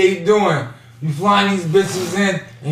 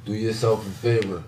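hushed; 12 semitones lower, 13 dB quieter than usual. Real, not acted. Hushed advice to fellas.

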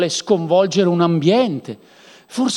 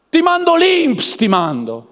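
mock loud threat; 9 semitones higher, 4 dB louder, slower than usual. Mock threat to send officials.

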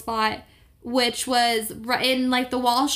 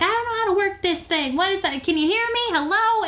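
put-on old Jewish lady who can't work her iPhone, higher and flustered; frustrated old lady; 8 semitones higher, faster than usual. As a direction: play a confused grandma yelling at her phone. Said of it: "She's like".

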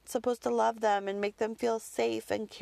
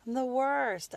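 higher, full-voiced self-reproach; self-blaming exclamation; 5 semitones higher than usual. Repeats the guilty thought out loud.

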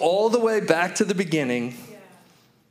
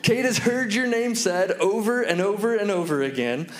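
higher, mock-incredulous scolding; playfully exasperated, pitched up; amused disbelief; 4 semitones higher than usual. Father inwardly reacting to his three-year-old's ridiculous question, amused disbelief. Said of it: "I started to laugh. I thought".

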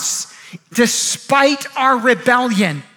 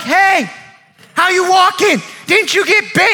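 acted astonishment; 5 semitones higher than usual. Man in tent questions healed visitor, acted astonishment. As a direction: call it out, amazed.

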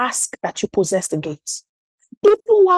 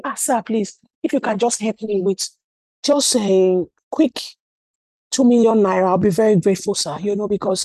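hesitant pleading; 2 semitones lower than usual. Acted. Visitor asking a king for money, hesitant pleading. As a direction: hem and haw through an awkward request.

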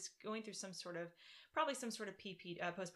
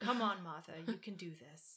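lightly voiced Southern mother-in-law; Southern accent; 5 dB louder than usual. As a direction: urge her on in a Southern accent. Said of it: "She has a Southern accent".

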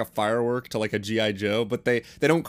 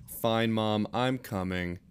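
sighing; 5 dB quieter, slower than usual. Acted. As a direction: sigh the words out, giving in. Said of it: "Andy sighed".

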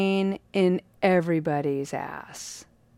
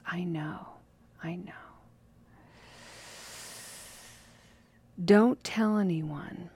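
softer, hushed confession; secret whisper; 4 dB quieter than usual. Retold or imitated. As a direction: let him in on the secret. Abbot confides a secret.

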